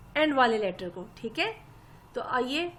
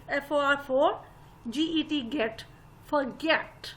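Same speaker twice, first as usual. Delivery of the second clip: letters, then फ़ोर and गेट separately, then फॉरगेट whole; spelling in pieces; slower than usual. Retold or imitated. Phonics teacher to young children, spelling फॉरगेट piece by piece. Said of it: "teachers आपको pieces में".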